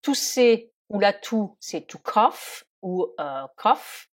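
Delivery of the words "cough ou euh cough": "cough" ending in a clear F sound. Shown as a demonstration. Teacher showing learners how to say cough, "cough" with final F. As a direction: say "cough" with GH pronounced like F. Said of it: "les lettres G H qui se prononcent comme la lettre F".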